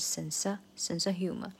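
"sense of" said as "sensa"; of weakened to schwa. Shown as a demonstration. Teacher showing the reduction, "of" as schwa in "sense of humor". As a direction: reduce "of" to uh, linked onto "sense". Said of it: "这个sense也是弱化成一个schwa".

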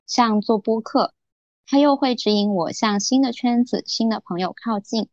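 formal broadcaster reading voice; 播音腔. Acted. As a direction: read it out like a radio host. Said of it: "就立马切换成那种播音腔了". (字正腔圆的播音腔朗读)

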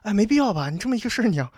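high, timid mock protest; imitating his own chickened-out self; retold cowardly pleading. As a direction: back down in a high, wheedling plea. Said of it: "我当时也挺怂的".

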